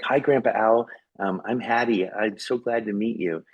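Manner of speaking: a hint of an eager child meeting grandpa; little girl greeting. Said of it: "she's like".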